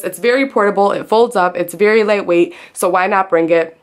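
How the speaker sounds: breathless after lifting the table; out of breath. Real, not acted. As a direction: talk between quick breaths, out of breath. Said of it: "I'm literally out of breath now".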